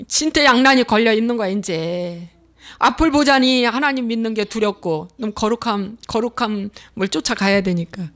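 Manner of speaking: ordinary talk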